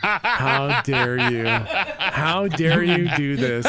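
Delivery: mock outrage. GM's character outraged at player's stunt.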